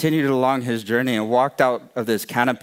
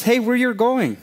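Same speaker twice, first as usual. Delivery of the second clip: high, loud sudden challenge; huge being calling out; 12 semitones higher, 4 dB louder than usual. A narrator's reading. Huge being stops the running mouse, high-pitched call-out. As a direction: pitch it way up, like hailing someone.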